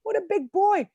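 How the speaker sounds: put-on high-pitched praise for a small child; gushing, high baby-talk praise; encouraging. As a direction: coo encouragement at a little kid. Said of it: "trying to encourage him".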